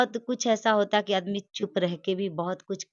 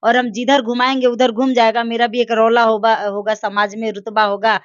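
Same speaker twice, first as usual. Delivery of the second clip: louder, pushing the accusation; heated, raised voice; 6 dB louder than usual. Real, not acted. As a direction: hammer the point home loudly. Heated argument about father's motives. (ज़ोर से आरोप लगाते हुए)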